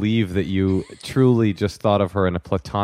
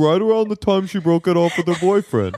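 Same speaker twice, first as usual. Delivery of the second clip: laughing tease; 8 semitones higher than usual. Real, not acted. Host teasing caller with joke.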